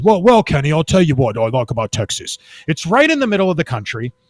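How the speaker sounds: thick British accent, put-on businessman voice. Retelling a businessman's answer on why he chose Texas: thick British accent. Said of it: "with his thick British accent".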